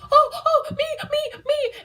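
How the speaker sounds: very high, laughing calls for attention; eager me me me. Retold or imitated. Fan begging the host to pick her, high and laughing. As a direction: beg to be picked, hand waving. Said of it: "I was waving my hand like".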